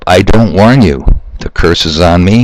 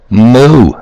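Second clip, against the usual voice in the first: mock cow moo; 5 semitones higher, 3 dB louder than usual. Mocks people as cattle.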